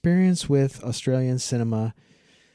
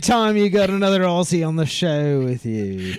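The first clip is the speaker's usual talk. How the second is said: high, hammed-up Aussie; exaggerated Australian accent, pitched up; put-on Australian accent; 7 semitones higher, 4 dB louder than usual. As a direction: play the big Aussie guest. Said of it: "That's really good".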